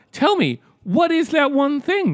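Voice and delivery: high, slow awestruck naive voice; wholesome 1950s kid. Pretend. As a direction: ask with wide-eyed wonder. Mock reverent dialogue.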